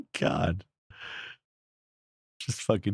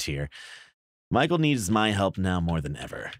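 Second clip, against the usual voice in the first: letter reading. Acted. Reads an in-game letter aloud.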